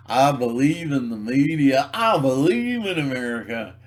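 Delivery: a hint of a naive flag-waver; mock dumb believer. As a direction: recite it like a gullible patriot. Mocking credulous citizen.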